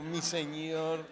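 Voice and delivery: slow, drawn-out devoted "Mi señor"; a hint of adoring Sara; sweet submissive wife. Sara addressing Abraham, slow and adoring. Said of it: "Luego, luego".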